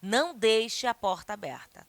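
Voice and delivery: "Não deixe" lifted, then falling through the phrase; a firmer order with weight on "Não deixe"; exclamatory intonation. Shown as a demonstration. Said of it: "Se tivesse uma excla-, exclamação aqui".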